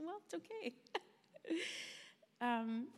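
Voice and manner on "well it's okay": voiceless, much softer reassurance; hushed reassuring whisper. Retold or imitated. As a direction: whisper it gently to comfort her. Comforting crying mom, retold.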